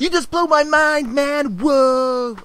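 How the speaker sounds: high-pitched, mind-blown onlooker; mock amazement. Crowd round chalk sums on the ground, mock amazed. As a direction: play an awestruck crowd, voice way up high. Crowd reacting to street math.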